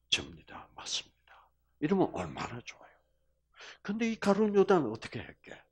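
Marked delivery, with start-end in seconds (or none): 0.1-1.5 whispered confession. Pretend. Judas confessing, voiced.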